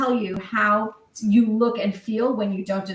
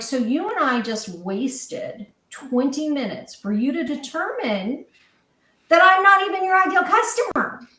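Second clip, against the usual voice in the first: retold exasperation; 4 semitones higher than usual. Woman retelling her retort to a useless salesman, exasperated.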